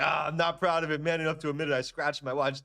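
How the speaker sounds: put-on lightly lampoon the watch-flexing kid; light mocking humblebrag; mock show-off. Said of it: "and be like".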